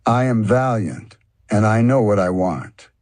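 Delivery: a lightly voiced bragging frog; boastful. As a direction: puff yourself up, brag to yourself. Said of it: "motivated himself by boasting".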